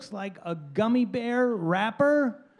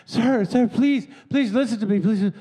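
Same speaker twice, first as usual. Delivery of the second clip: pleading woman; 3 dB louder than usual. Retold or imitated. Stranger begging him frantically.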